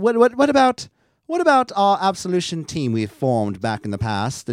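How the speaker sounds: mock pleading team member; whiny protest. Host voicing a hurt team member pleading, high and loud.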